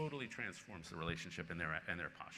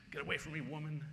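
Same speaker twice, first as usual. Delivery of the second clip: imitating a drunk shouting, higher; a retold drunk heckler barking at a woman, higher; mock yell; 8 semitones higher than usual. Drunk fan yelling at his wife, mock higher shout. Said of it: "he screams at my wife".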